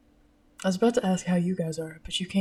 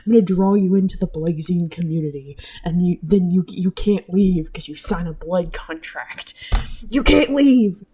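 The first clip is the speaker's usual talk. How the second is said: luring siren voice; 4 dB louder than usual. Pretend. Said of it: "my siren voice".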